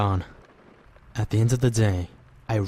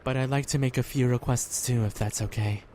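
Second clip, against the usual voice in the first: prayer. Acted. Boy prays for friends before sleeping, earnest prayer. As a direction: pray sincerely, unhurried.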